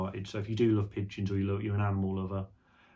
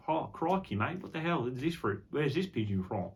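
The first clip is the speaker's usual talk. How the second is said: mock Australian accent; 3 semitones higher than usual. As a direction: play an Aussie bloke amazed at the bird. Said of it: "might have had an Australian sort of accent".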